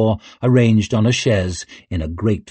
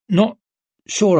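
startled; 11 semitones higher, 3 dB louder than usual. Acted. Leo startled jump.

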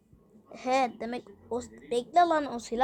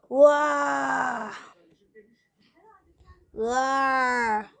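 shout. Real, not acted. Player yelling during the robot fight. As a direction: yell out as the robot hits.

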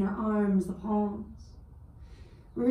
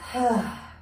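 mouth exhale. Shown as a demonstration. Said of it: "Maybe exhale through the mouth".

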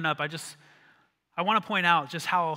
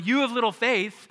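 louder rebuke, raised over crashing waves; 5 semitones higher, 6 dB louder than usual. Retold or imitated. Jesus rebuking the disciples over the waves, raised voice. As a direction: call it out over the storm. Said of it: "as he's going".

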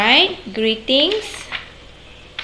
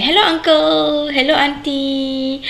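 polite greeting; 5 semitones higher than usual. Shown as a demonstration. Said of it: "you say".

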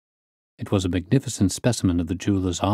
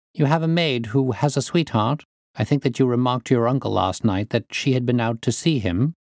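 measured inquiry, slightly raised pitch; lightly voiced questioning detective; 4 semitones higher than usual. Detective questioning the niece about the maid, lightly voiced. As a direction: probe politely, lightly in character.

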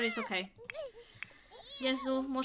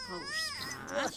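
high coaxing voice; much slower than usual. Pretend. Coaxing a sim to bed.

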